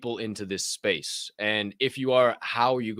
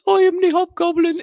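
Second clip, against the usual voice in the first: Hobgoblin voice; 10 dB louder than usual. Retold or imitated. Mimicking the guest on the show in a high loud goblin voice. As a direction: squeal it out like a cartoon goblin. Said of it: "He talked like this".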